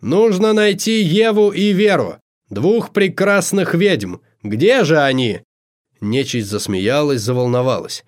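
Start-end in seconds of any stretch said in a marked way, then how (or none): 0.0-5.4 high projected call, slowing towards the end; rally the crowd, drawing out the last words; announcing. A narrator's reading. Host sending guests to find two witches, announcing. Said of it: "объявил Амадей".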